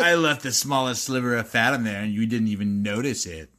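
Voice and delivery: weak attempt at a villain; mock evil gloating. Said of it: "that was my best, like, evil voice there".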